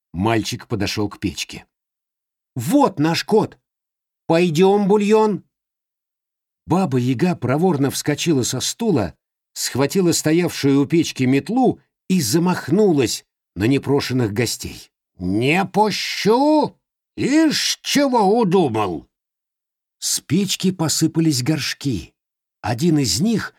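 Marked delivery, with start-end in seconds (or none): 2.6-5.4 calling the cat. Acted. 15.2-19.1 high, slow furious crone; angry old witch. Acted.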